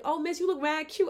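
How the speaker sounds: high, loud imitation of gushing teens; excited teenage girls. Teen girls complimenting a woman on the train, imitated high gushing. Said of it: "the teenage girls when I'm on the train".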